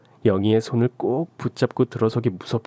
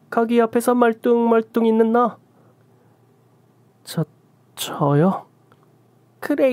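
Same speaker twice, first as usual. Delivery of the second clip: put-on scolding old shaman; 8 semitones higher than usual. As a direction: spit the curses down at her. Shaman turns on narrator.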